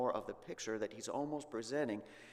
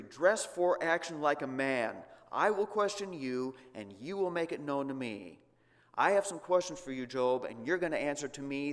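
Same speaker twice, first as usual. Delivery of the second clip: God's challenge; 2 semitones higher, 4 dB louder than usual. Acted. God challenging Job, voiced.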